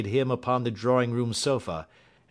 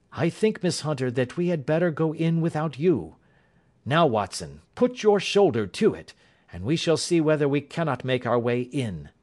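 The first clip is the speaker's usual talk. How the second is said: lightly voiced detective, pitched up; brisk Holmes, commanding; 5 semitones higher than usual. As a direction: give orders as the detective in charge.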